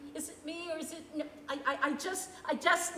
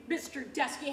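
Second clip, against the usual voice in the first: MISTER DESKEY hurled in fury; angry address. Acted. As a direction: spit the name MISTER DESKEY with rising contempt. Contrast with polite line 11.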